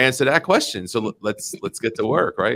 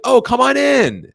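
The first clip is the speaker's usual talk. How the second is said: put-on sweet old lady; 13 semitones higher, 5 dB louder, slower than usual. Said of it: "She's like".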